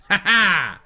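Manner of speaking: short, loud "ha ha" laugh; gloating laugh. Real, not acted. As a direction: crow with a quick laugh. Gloats during combat.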